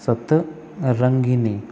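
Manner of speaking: सतरंगिनी said very slowly, clear gi-ni; slow careful spelling. Shown as a demonstration. Teacher dictates the correct spelling to students. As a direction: draw out सतरंगिनी syllable by syllable. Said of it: "क्या होता है".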